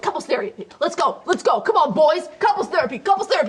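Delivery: building bro hype; hyping up the boys. Retold or imitated. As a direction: hype the boys up like a locker room. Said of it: "that hypes them up".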